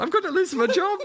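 high-pitched panicked impression; mock panic. Teasing a friend who sat there panicking, mock panic. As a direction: squeal it in comic panic. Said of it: "Joe sat there panicking".

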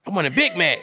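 mock-crying little rat voice; tearful high rat whine; whining rat. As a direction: whimper it like a sad rat. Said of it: "Can you imagine these humanized rats?".

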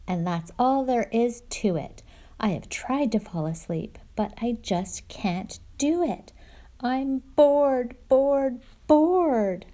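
grumpy bear growing into a loud bored wail; roaring bear building. Acted. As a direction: build from grumble to a big cry of bored. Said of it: "roars Bear".

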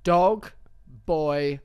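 each word set apart, slow; slow listed recap. Shown as a demonstration. Recapping the story for her friend, word by word. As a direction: spell it out word by word, slowly. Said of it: "Would you like me to repeat?".

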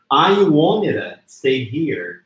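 "wanted to" melted into "wonnida"; slow demo, "wanted to" as "wonnida"; forma reduzida. Shown as a demonstration. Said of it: "transformar num sonzinho como a". ("wanted to" soando "uónira", devagar)

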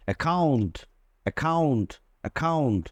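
অ্যাকাউন্ট with a hard খ sound; double c as k. Shown as a demonstration. Teacher showing the double c as k. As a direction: stress the খ in অ্যাকাউন্ট. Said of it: "double সির পরে কিন্তু ও আছে".

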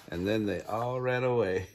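real laugh through the words; amused. Real, not acted. Reader amused by the birds all running away, laughing. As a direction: finish the line laughing.

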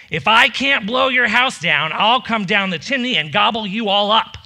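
mild mock shout down the chimney; wolf shouting. Wolf shouting down the chimney, mild mock shout. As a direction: call down from the roof. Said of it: "shouted down the chimney".

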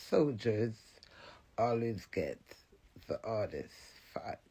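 hushed whisper; whispered punchline. Acted. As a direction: drop to a breathy secret. Dramatic hushed line about soldiers.

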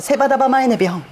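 fast Tsugaru dialect セバダバマイネビョン. Shown as a demonstration. The guest showing off Tsugaru speech to the host. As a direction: fire off the Tsugaru phrase quickly. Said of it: "これが津軽".

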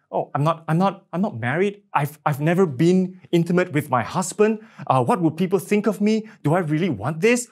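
put-on a flustered young woman who can't believe it; anxious disbelief. Mary doubts the angel.

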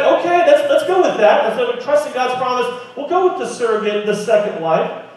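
high, eager caving-in voice; giving in. Retold or imitated. Abraham giving in to Sarah, high and eager. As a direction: cave in, a bit too eager.

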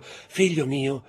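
slow, pleading call to her son; pleading slowly. A narrator's reading. Mother pleads over her fainted son, slow and anguished. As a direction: draw it out, begging him to wake. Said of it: "gridò la madre".

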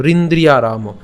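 রিন্দ্রি আরাম run together without a break; joined pronunciation. Shown as a demonstration. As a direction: link রিন্দ্রি straight into আরাম. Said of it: "একসাথে উচ্চারণ করবো".

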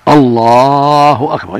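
"الله" with a long lam, "أكبر" short; lam drawn. Shown as a demonstration. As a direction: hold the lam in "الله", very slow. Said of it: "يمد اللام". (مد اللام في الله)

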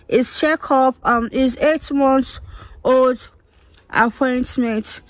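talking around a lollipop; candy in the mouth; sucking a lollipop. Real, not acted. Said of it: "Sorry, guys, my lollipop".

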